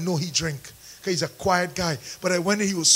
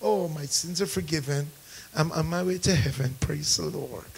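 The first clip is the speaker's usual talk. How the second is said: mock churchgoer; 5 semitones lower, 8 dB quieter than usual. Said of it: "What about church people?".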